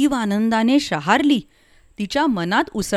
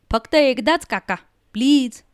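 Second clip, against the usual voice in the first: pleading; 5 semitones higher than usual. A narrator's reading. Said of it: "तिची ही अशी विनंती".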